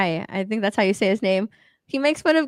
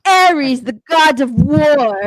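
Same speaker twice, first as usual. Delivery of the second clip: dramatic announcer; 6 dB louder, much slower than usual. Pretend. Repeating the scene line mockingly.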